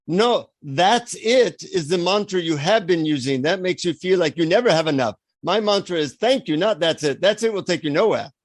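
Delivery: put-on firm guru correcting a pupil, Indian accent; imitated Indian guru. Guru correcting visitor's mantra, Indian accent. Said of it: "he says in his Indian accent".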